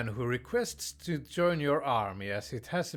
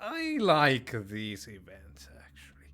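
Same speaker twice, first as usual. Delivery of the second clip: whisper. Real, not acted. Quiet aside to the audience.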